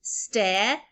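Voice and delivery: "Step" as STEH, long pause, then P; partly blended. Shown as a demonstration. Teacher putting sounds together, "Step" with its P detached. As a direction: hold back the final P of "Step". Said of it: "put the next three together".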